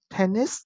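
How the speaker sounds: "tennis" stressed on TEN; first-syllable stress. Shown as a demonstration. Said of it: "dấu nhấn vần một". (nhấn vần một của "tennis")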